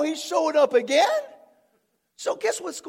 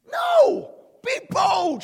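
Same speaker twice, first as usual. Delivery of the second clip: sharp, much higher shout; shouted command; 8 semitones higher, 5 dB louder, much slower than usual. Real, not acted. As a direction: snap them out of fear.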